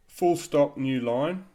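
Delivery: loud, clear spoken command; dictation command. Shown as a demonstration. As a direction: call out the punctuation command.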